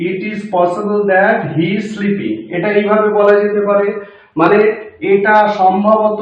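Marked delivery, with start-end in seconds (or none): 0.1-2.4 slow, word by word full sentence; slow dictation. Shown as a demonstration. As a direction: read the sentence out slowly for the class. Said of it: "এইভাবে বলি". (ধীরে ধীরে পুরো বাক্য)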